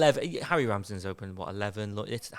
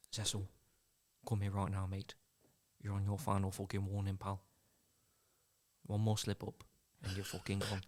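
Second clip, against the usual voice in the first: put-on Nottingham accent. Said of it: "he goes".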